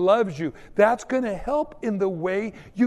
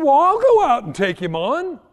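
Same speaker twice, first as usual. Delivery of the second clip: eager boast; 7 semitones higher, 7 dB louder than usual. Retold or imitated. David volunteers to fight Goliath.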